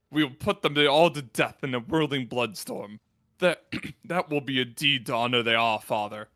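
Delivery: low grim warrior vow; gruff space marine. Acted. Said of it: "Trying to figure out a deep Space Marine voice".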